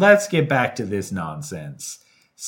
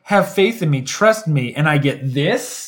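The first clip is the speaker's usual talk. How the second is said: mock-indignant snark, slowing at the end; snarky imitation. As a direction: imitate her snarky reproach. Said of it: "she was real snarky".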